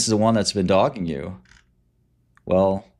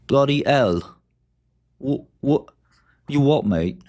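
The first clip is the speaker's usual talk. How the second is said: put-on English accent; 5 semitones higher, slower than usual. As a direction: play a cheeky English bloke with a mock English accent. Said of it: "You want my best English accent?".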